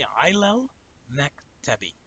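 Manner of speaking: slow, careful Arabic ilal maktabi; teacher spells out ilal maktabi for students; Arabic pronunciation. Shown as a demonstration. Teacher demonstrating Arabic pronunciation slowly. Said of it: "So you say".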